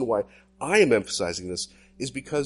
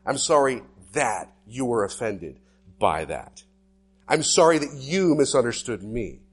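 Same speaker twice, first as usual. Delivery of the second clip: mock bad apology; 6 dB louder than usual. Pastor mocking bad apologies to the congregation, insincere tone. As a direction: ham up an insincere non-apology. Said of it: "examples of bad apologies".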